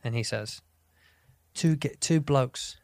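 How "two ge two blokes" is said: bad British accent. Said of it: "I love doing it in his accent 'cause it's bad".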